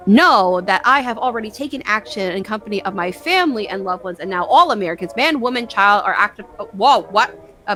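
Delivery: measured read of a patriotic proclamation; formal address read. Acted. Reads a mock emergency address aloud.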